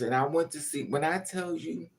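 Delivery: usual speaking voice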